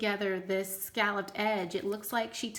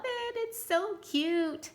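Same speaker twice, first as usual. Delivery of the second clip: gushing; 10 semitones higher, slower than usual. Real, not acted. Gushing over a cute craft tag.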